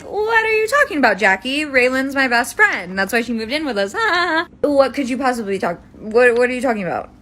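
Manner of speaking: high, quick disbelieving protest; defending her friend in disbelief, voice high and quick; incredulous defense. Retold or imitated. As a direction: laugh it off in shocked denial. Acted defensive disbelief quote.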